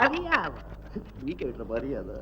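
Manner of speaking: low, soft scornful question; quiet contempt. Acted. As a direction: question it softly with disdain. Contemptuous challenge to a rival. (తక్కువ గొంతుతో తిరస్కారంగా)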